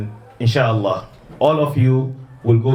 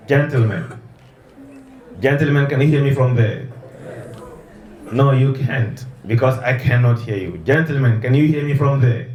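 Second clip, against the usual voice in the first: calling from far away; 2 semitones higher than usual. Real, not acted. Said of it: "the boys are all the way at the end".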